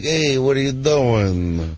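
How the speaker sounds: slow tough-guy Brooklyn drawl; Brooklyn accent. Retold or imitated. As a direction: lay on the Brooklyn accent, slowly. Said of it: "But Dice was more like".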